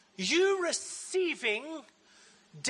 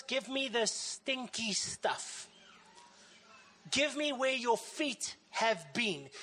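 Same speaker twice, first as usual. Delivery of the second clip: tender invitation. Retold or imitated. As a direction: coax them to hand over the stinky stuff. Jesus voiced tenderly inviting.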